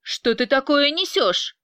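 offended retort; indignant. Acted. Vyacheslav indignant at Angelina's accusations. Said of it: "возмутился Вячеслав".

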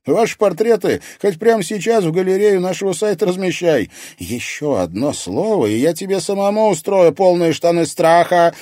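loud, high angry threat; threatening. A narrator's reading. Irina threatening Artyom who mocks her fear. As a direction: warn him off, fed up with teasing. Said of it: "пригрозила ему Ирина".

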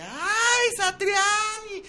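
very high, drawn-out lovestruck squeal; swooning fan. Retold or imitated. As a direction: swoon over him like a smitten fan. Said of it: "de un círculo más de mujeres".

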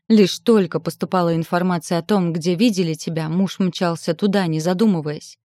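громко, напористо, с нажимом; бросить обвинения ему в лицо; гневная отповедь. Acted. Жена обвиняет брата мужа. (гневно и громко)

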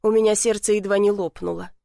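ordinary delivery

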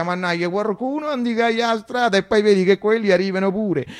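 lightly voiced uncle, impatient and complaining; a hint of an exasperated old man; grumbling old uncle. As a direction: grumble like an old Roman uncle fed up with waiting. Uncle Franchino complaining in quoted speech.

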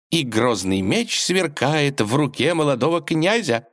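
high, rapturous exclamation; exclaimed. A narrator's reading. Princess dreaming at the window of a heroic prince, rapturous cry. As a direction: cry it out, carried away. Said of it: "воскликнула Василиса".

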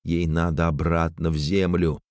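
usual speaking voice

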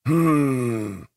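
long, soft-edged pondering hum; drawn-out hmm. A narrator's reading. Manfred half-remembers being kicked, drawn-out pondering hum. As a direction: draw out a doubtful hmm. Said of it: "протянул Манфред".

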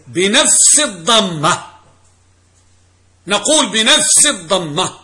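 slow, deliberate stress on بنفس الضمة; emphatic key phrase. Shown as a demonstration. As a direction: stretch out بنفس الضمة so students focus on it. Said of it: "ركزوا". (نطق بطيء مؤكد لعبارة «بنفس الضمة»)

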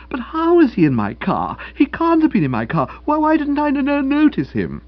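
voix qui monte, haute et forte, dans l'affolement; a rattled man stammering out his panic; flustered disbelief. Acted. Boko panics on learning the news.

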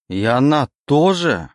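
roar. Acted. Oleg begs the demon for the truth, roaring. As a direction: bellow the question in despair. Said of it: "перейдя на рёв".

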